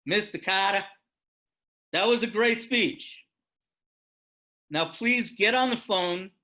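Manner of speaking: put-on light Massachusetts accent, friendly and pushy; Tip O'Neill Massachusetts accent. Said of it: "he says in his Massachusetts accent".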